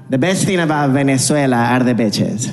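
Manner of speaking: "bitches" with a short i, meaning beaches; earnest school presentation, "bitches" for beaches; mispronounced beaches. Acted. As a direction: say "bitches" innocently for beaches, Venezuelan accent. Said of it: "I couldn't say the word beach".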